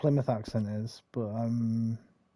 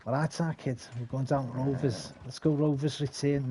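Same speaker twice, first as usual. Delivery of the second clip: badly attempted Scouse; Scouse accent. Streamer failing at regional accents, Scouse impression. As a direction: put on a shaky attempt at Scouse. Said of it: "No, that's Scouse. I can't do them".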